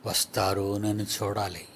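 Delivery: a gentle voice of Jesus waiting; tender longing. Acted. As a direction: murmur it as a hopeful wait.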